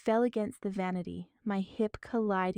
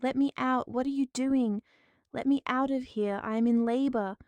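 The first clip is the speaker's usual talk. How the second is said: higher, louder shouts through the door; desperate shouting; 4 semitones higher, 4 dB louder than usual. Acted. Woman in labor yells through the locked door, desperate. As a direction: yell to be let out.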